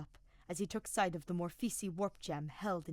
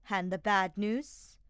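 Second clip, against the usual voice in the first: glowering; 8 dB louder, slower than usual. Acted. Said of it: "Edelgard glowered".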